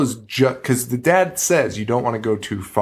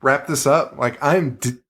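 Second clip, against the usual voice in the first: exasperated rant; 3 semitones higher than usual. Retold or imitated. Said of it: "I'd be like".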